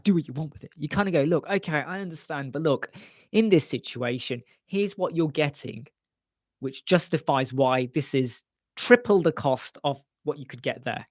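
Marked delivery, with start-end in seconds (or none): 0.0-0.7 curt dismissal. Shown as a demonstration. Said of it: "Don't say it like that". 1.2-11.1 nice way. Shown as a demonstration. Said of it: "You gotta say it in a nice way".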